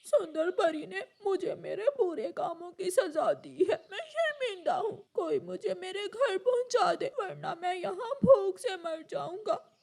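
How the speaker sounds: speaking through sobs; sorry and weeping; a punished little crow crying; tearful. Acted. Hungry crow weeps in forest.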